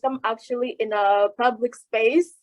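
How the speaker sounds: talking through a face mask; muffled behind a face mask. Real, not acted. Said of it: "pardon my mask".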